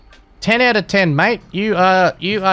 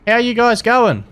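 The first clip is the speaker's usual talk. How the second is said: mock friendly. Admin greets cheaters over voice chat.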